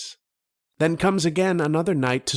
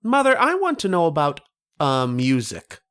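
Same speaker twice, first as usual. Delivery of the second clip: put-on high, quick boyish voice, eager to ask; a ten-year-old boy politely asking; young boy; 4 semitones higher than usual. Ten-year-old boy asking his mother a question, high boyish voice.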